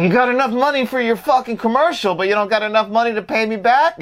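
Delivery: high-pitched, worked-up complaint; pestering Maury impression. Friend quoting an annoying movie character demanding money, mock indignant. Imitates Maury badgering Jimmy.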